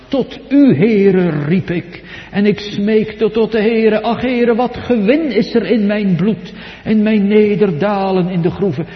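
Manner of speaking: high, loud desperate plea to God; pleading cry. Acted. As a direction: cry out to the Lord, begging. David crying out to God.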